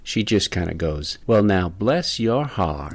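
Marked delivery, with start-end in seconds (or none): 1.3-2.9 slow, syrupy Southern "bless your heart"; Southern drawl. Retold or imitated. Southern friend ending an argument, in a slow Southern drawl. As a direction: stretch it out like an Atlanta friend. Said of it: "with a real significant Southern drawl".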